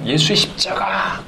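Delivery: slow, breathy imitation of a revival preacher; mock preacher cry. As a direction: mimic the camp speaker's dramatic cry. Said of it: "강사님이 막". (수련회 강사를 흉내 낸 느리고 숨 섞인 외침)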